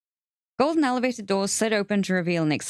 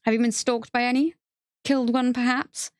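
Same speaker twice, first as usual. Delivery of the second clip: bored doctor; 7 semitones higher than usual. Acted. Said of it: "like a slightly bored doctor checking off symptoms".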